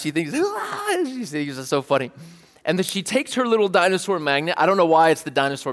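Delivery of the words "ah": high, playful mock giggle; imitated toddler laugh. Dad imitates his daughter finding it funny, mock toddler laugh. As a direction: mimic a delighted little kid's laugh. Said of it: "and she laughs".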